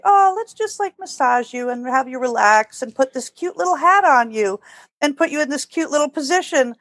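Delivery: sweetly coaxing newborn puppies to relax; cooing to puppies. Retold or imitated. Breeder cooing to her newborn puppies, high and sing-song.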